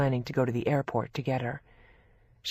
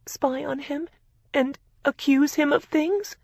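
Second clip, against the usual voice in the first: incredulous anger; 10 semitones higher than usual. A narrator's reading. Victoria incredulous.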